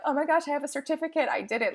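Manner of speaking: thrilled overachiever. Retold or imitated. Mimicking an overachiever getting a certificate, mock thrilled. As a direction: rattle it off like a proud kid. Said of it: "you know that feeling of".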